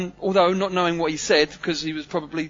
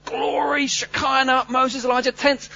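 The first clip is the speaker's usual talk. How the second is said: excited rush; 5 semitones higher than usual. Retold or imitated. Mocking his own high hopes.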